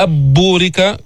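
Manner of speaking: "أب بورك" with the noon merged into a doubled b; wrong idgham. Shown as a demonstration. Teacher showing the error of merging, "أب بورك" with doubled b. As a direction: merge n into b: ab-būrika. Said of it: "هل أتينا بإدغام؟".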